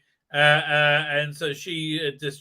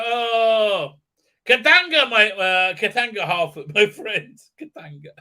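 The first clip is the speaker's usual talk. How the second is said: mock grief; 4 semitones higher, 5 dB louder than usual. Mocking hobbits mourning a friend.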